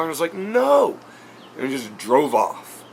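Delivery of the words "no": high, drawn-out shouted no; acted loud denial. Vlogger replaying his last denial to the redneck, loud and high. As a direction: cry out the denial, pitch leaping.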